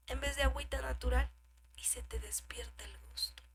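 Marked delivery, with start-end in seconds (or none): 1.8-3.4 warning whisper. Acted.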